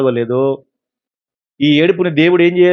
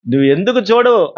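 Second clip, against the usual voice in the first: higher, whining demand; the people complaining to God, higher and whiny; whiny complaint; 6 semitones higher than usual. Retold or imitated. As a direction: sulk at God like a spoiled child. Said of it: "అని అంటే".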